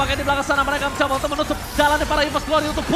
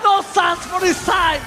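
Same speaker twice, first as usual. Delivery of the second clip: slow, high dramatic call; fighting game announcer; 5 semitones higher, slower than usual. Real, not acted. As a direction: drag out the knockout call. Caster calls hero's death. (seruan dramatis caster)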